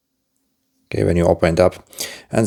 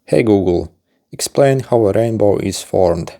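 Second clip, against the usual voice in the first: talking to voice assistant. Shown as a demonstration. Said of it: "You're going to need to say a few phrases".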